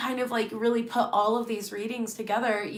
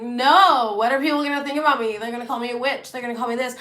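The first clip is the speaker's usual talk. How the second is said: panicked outburst; 3 semitones higher, 6 dB louder, faster than usual. Retold or imitated. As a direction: blurt it out as if the idea is horrifying. Retelling her panicked refusal.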